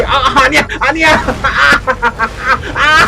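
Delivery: high loud cries of no; panicked scream. Real, not acted. Caught, screaming no.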